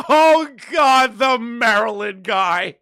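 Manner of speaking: laughing. Real, not acted. Recognizes a name, bursts out laughing.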